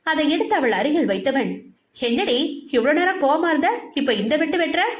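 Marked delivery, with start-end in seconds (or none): 2.1-4.8 higher, amused disbelief; surprised. Acted. Satyan sees Mathi eating after sulking, surprised. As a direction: ask it in amazed disbelief. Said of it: "என ஆச்சரியமாக கேட்டான்".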